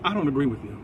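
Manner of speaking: imitating a calm, measured reply. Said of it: "in this calm tone".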